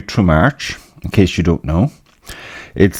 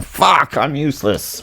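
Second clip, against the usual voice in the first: self-deprecating curse; 6 semitones higher, 4 dB quieter than usual. Retold or imitated. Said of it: "swearing a lot, saying".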